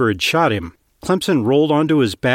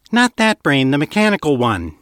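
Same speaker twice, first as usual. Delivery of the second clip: irritated retort; 3 semitones higher than usual. Acted. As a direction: cut him off, annoyed. Woman snaps at Clemson.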